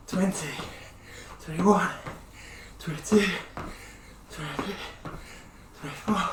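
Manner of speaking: breathless counting while jumping; winded count mid star jumps; doing star jumps. Real, not acted. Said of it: "I'm doing fifty of these".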